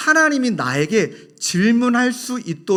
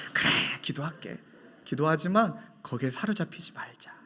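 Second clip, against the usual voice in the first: gentle reassurance; 2 semitones lower, 8 dB quieter than usual. Retold or imitated. Pastor gently answering young woman.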